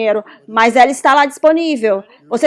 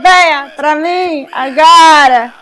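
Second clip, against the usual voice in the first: drawn-out call; much slower than usual. Shown as a demonstration. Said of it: "geralmente a gente grita".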